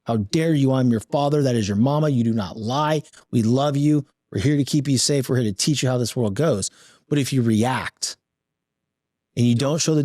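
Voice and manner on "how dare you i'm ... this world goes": mock rage. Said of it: "rage, like".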